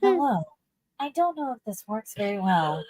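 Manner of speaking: talking with nose pinched; nasal pinched voice. Shown as a demonstration. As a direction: pinch your nose and speak. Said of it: "Pinch your nose when you talk".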